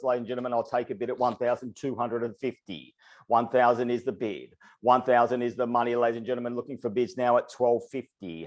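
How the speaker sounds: rapid rhythmic auctioneer patter; auctioneer call. Acted. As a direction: keep the bids rolling like an auctioneer. Runs a live auction call.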